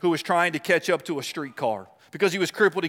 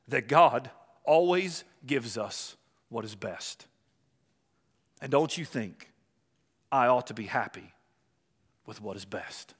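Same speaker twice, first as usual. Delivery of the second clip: a hint of a gentle child, slow; slow, innocent child's answer to the man; lightly voiced little boy; 5 semitones lower than usual. Crippled boy's reply in story.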